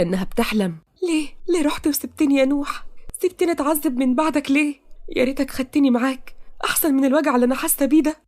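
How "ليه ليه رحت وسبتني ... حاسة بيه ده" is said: higher, aching lament; tearful reproach. Acted. Taqa half-dreaming, tearfully reproaching Noah. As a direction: plead through tears.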